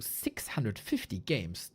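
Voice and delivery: slow whisper of disbelief; awed whisper. Real, not acted. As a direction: breathe the number out in awe. Awed whisper at game count.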